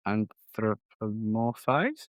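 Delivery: Anthropomorphize sounded out very slowly, rising; careful pronunciation. Shown as a demonstration. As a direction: stretch Anthropomorphize syllable by syllable. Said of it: "Tell me how words are".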